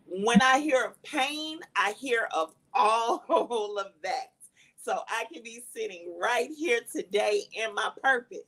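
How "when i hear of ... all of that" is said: breaking into tears, slow; choked up. Real, not acted. Survivor tells of her pain, choked with real tears. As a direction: let the voice catch on the tears.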